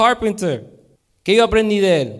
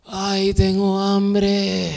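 tired hungry Esau; 2 semitones higher, much slower than usual. Acted.

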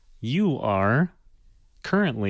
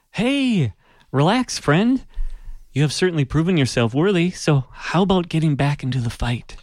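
bright, higher, louder friendly figure; 7 semitones higher, 4 dB louder than usual. Acted. A familiar friend urges Elron to rejoin, high and upbeat. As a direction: coax him back into the fight. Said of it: "a recognizable voice speaks".

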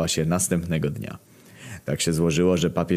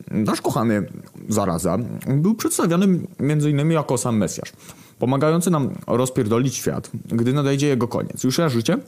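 high, eager character voice; a hint of a scheming squeak; 6 semitones higher than usual. Głód wyjaśnia plan. (wysoki, zagrany głos Głodu)

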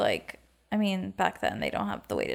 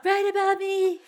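high laughing plea; 10 semitones higher, 4 dB louder than usual. Real, not acted. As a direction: beg through giggles.

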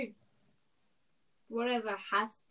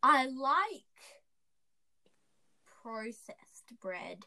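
breathy mocking whisper; 2 semitones higher, slower than usual. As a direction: whisper it as a tease. Mocking the other speaker.

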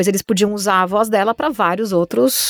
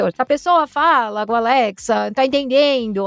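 put-on Brazilian regional accent; imitated regional accent; 2 semitones higher than usual. Shown as a demonstration. Voice artist showing accents Alexa must understand, put-on regional accent. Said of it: "tem que entender esses sotaques".

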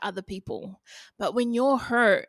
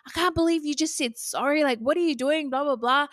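higher-pitched mock reproach; incredulous scolding; 5 semitones higher than usual. Sister scolds speaker for saying sorry, mildly incredulous. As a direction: imitate a sister in disbelief, trailing into filler.

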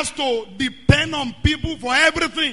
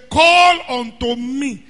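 called out; 6 dB louder, slower than usual. Shown as a demonstration. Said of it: "He didn't say, "Whisper to me".

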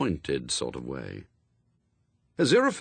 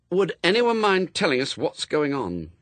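stern; 7 semitones higher than usual. A narrator's reading. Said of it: "said Anathema sternly".

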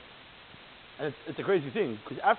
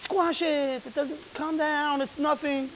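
mock dismissive advice; 9 semitones higher, much slower than usual. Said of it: "We're not saying".

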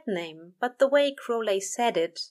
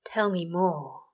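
panting. Acted. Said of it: "he panted".

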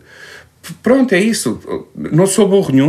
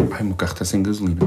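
soft, complaining sigh; whiny wife voice; 6 semitones lower, 9 dB quieter, faster than usual. Retold or imitated. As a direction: moan it like a tired wife. Wife voiced in retold story.

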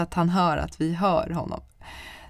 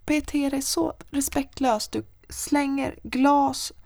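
scolding; 7 semitones higher, slower than usual. Retold or imitated. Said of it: "jag säger".

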